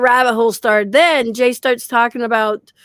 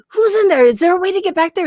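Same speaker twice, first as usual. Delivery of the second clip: retold angry demand; 7 semitones higher, faster than usual. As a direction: demand it fast as if someone is hiding. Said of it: "And then I'm getting mad".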